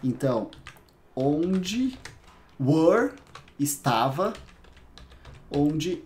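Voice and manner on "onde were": ordinary delivery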